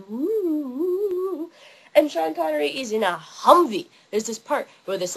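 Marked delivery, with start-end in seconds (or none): 0.1-1.5 high, wavering "woo"; roads whooshing up and down. Retold or imitated. Showing viewers the hilly roads, swooping imitated woo. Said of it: "All the roads are like".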